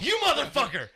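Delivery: high, loud laughing mock yell. Coworker retelling his outburst at the kid, laughing yell. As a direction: blow up at him, half laughing.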